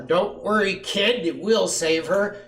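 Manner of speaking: loud, high-pitched brotherly promise; rallying reassurance. A narrator's reading. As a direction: call out boldly to the rescue. Brothers rally to rescue, voiced.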